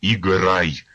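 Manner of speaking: loud repeated order; repeated command. Acted. Officer repeating his order to the harmonist, loud. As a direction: shout it again, harder. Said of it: "повторив Мічугін".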